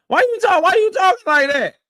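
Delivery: amused laughing repeat. Real, not acted. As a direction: crack up while repeating it.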